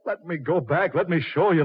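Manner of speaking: high, desperate insistence; frantic pleading. Acted. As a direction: beg for your life, voice cracking upward. Carl begs Satan frantically.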